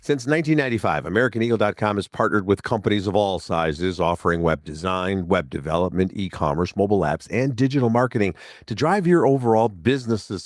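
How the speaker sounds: upbeat sponsor read, steady and polished. Acted. Host reading a sponsor ad, polished ad voice. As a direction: read the sponsor spot like a radio ad.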